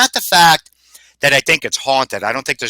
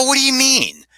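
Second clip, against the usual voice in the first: surprised question; 12 semitones higher than usual. Retold or imitated. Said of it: "And I go".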